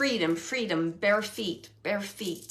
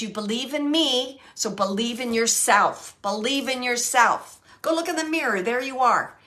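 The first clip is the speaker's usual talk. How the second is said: emphatic encouragement; 6 dB louder than usual. Retold or imitated. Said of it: "she's saying it like that".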